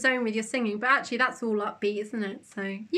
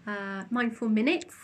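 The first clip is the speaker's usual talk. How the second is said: soft spa whisper; 3 dB quieter, slower than usual. Acted. Leads a meditation.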